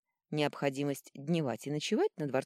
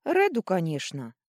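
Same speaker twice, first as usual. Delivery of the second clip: louder, snorted reply; scornful snort; 3 semitones higher, 7 dB louder than usual. A narrator's reading. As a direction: snort it as if obvious. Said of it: "фыркнула Ванила". (фыркая, мол, очевидно)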